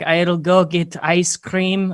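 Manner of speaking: put-on slow, halting Eastern European accent; imitating an Eastern European woman's English. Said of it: "she looked like Eastern European Snooki".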